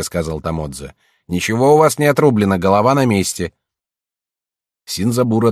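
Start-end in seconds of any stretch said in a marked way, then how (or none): 1.3-3.5 голос слуги. Acted. Слуга успокаивает хозяина.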